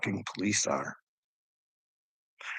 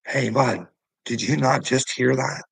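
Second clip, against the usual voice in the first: a bit louder, confronting the cop head-on; pointed challenge; 3 semitones higher, 3 dB louder than usual. Retold or imitated. Man presses the cop about the threat, confronting and a little louder. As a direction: demand he admit he heard it. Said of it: "I had to say it really fucking nice".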